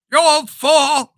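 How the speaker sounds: high, slow, loud hammed-up insult; mock angry. Host repeating George Bailey's shout at Uncle Charlie. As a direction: drag out the scorn at the old man. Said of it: "then he goes through despair".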